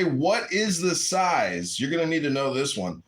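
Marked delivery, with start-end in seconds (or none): 0.0-1.8 slow teaching. Shown as a demonstration. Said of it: "This is how you say".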